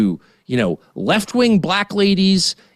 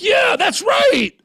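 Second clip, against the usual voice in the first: drawn-out, much higher sarcastic cheer; hammed-up mocking yes-man; mock agreement; much slower than usual. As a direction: sneer it out slowly like a fake fan. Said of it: "I'm not gonna be like".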